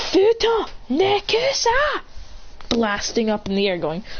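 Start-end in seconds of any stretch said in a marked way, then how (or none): 0.1-2.0 high, slow called-out technique; drawn-out battle cry. Acted. Christian blasting away, high slow battle cry. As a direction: stretch out the move name.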